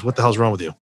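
gruff friend's jab, broken by laughter; laughing retelling of a buddy's rough teasing; laughing mock yell. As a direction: quote him through a laugh, half shouting. Quoting Matt at the gym.

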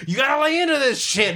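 mock worked up. Driver retelling himself honking at traffic, high worked-up rant. Retold angry self-talk while honking.

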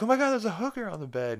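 high, fast, loud mock shock; shocked exclamation. Lois finding a hooker in the hotel room, shocked. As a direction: exclaim it in a high, rushed put-on voice.

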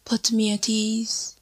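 measured, flowing poetry reading; poem recitation. Acted. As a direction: recite an ode to the sun, lines spaced by long pauses. Recites a poem over music.

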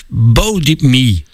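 "Bo Dip Me" said slowly, syllable by syllable; West Flemish try. Shown as a demonstration. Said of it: "Wacht, ik ga proberen".

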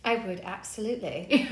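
playful put-on British accent. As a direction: answer as if you were British. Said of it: "come across with that accent".

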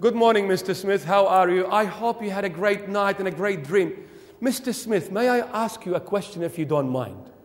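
over-polite, careful courtesy; mock-formal child addressing a parent. Child asking dad politely as Mister Smith, formal. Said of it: "if you're gonna be formal".

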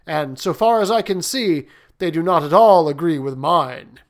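baffled and complaining; perplexed prince. Acted.

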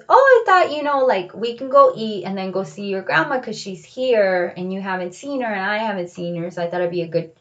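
a hint of dad brushing it off; casual dad voice. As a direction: play the dad breezily explaining the plan. Voicing dad's explanation.

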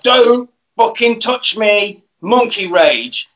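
very slow, heavy monster menace; robot monster voice. Retold or imitated. Frankenstein robot warning Ian, very slow mock-menacing drawl. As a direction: drag each word out like a lumbering robot.

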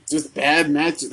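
normal talking voice

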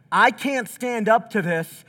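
a hint of a frightened prophet pleading; panicked Isaiah. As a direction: beg for time, terrified of God. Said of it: "this is like".

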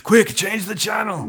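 quoting Zangief. Retold or imitated.

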